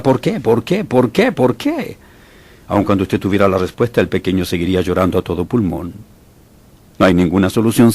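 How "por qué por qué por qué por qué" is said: pleading questions rising higher each time; anguished why. Retold or imitated. A parent asking why over a crying baby, rising plea. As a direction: ask why, more desperate each time. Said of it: "Todo el tiempo se pregunta".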